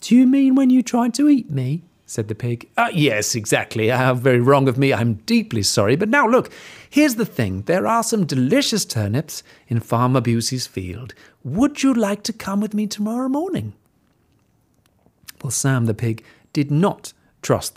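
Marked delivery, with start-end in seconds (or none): 0.0-1.8 high, loud pig challenge; indignant pig. Acted. Pig questioning wolf. 2.1-13.7 polite wolf. Acted. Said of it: "replied the wolf politely".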